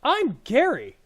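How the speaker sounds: high, loud goblin yell; goblin shout. Acted. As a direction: bellow his name like an excited goblin. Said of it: "The goblin shouts".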